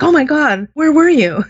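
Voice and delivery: a husband shocked to see her; startled husband. Retold or imitated. Husband startled, voiced by teller.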